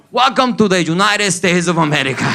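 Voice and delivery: lightly put-on official voice; imitated officer welcome. Cuban officer greeting arriving immigrants, lightly put-on voice.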